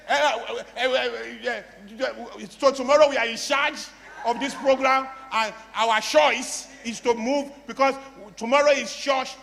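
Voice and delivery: hammed-up stammering start, stumbling through an announcement; mock fumbling announcer. Speaker stands up to announce programme, mock stammering. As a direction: play a lightly mocked, tongue-tied public speaker.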